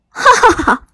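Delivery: loud mocking laughter; crowd laughter. A narrator's reading. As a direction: burst out laughing at him. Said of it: "哄笑声从观众席传来".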